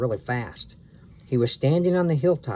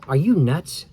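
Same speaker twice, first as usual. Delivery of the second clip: louder, disbelieving; incredulous; 3 semitones higher, 5 dB louder than usual. Acted. Boy refusing sister's plan, louder. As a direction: scoff at the idea.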